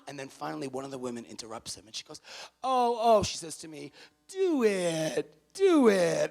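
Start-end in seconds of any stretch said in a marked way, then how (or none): 2.6-6.3 high, loud pleading "do it"; woman at the table begging the speaker; eager urging. Retold or imitated. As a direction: egg him on like a fan.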